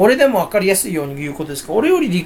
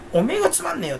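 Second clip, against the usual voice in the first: mock snapping; 10 semitones higher, 3 dB quieter, faster than usual. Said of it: "俺ブチ切れたもんな".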